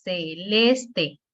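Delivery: celeste divided as ce-LES-te; syllable by syllable. Shown as a demonstration. Teacher repeating the three-syllable example, celeste syllable by syllable. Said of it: "tres sílabas".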